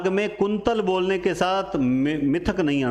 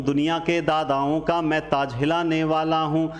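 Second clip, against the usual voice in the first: lightly declaimed poem; poem recitation. Acted. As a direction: declaim each line evenly.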